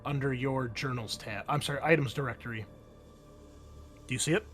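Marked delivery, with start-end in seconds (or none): none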